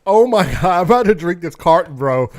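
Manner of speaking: talking with a burning tongue; strained speech through spicy pain; mouth burning from hot food. Real, not acted. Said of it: "My tongue is on fire right now".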